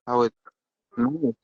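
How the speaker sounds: ordinary talk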